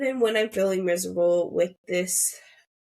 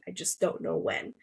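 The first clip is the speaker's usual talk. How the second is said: soft unvoiced whisper; 5 dB quieter than usual. Shown as a demonstration. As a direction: let it fall away into a whisper. Repeated line, dropped to whisper.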